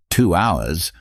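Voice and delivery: Two hours? rising at the end in mild disbelief; surprised echo. Acted. Narrator echoes in disbelief.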